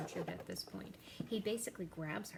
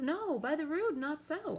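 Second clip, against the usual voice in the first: sharp, much higher and louder denial; indignant retort; 9 semitones higher, 8 dB louder than usual. Acted. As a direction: fire it back at her, offended. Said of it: "And Hamlet says".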